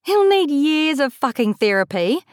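high, amused delivery; gleeful teasing with a smile; grinning. A narrator's reading. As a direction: say it through a grin. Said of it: "still grinning".

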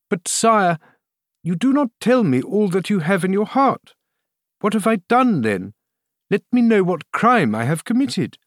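high-pitched, protesting queen; crying out, weary. A narrator's reading. Queen tired of the king's vague attacks, crying out in protest. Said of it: "cried Anne of Austria, tired of these vague attacks".

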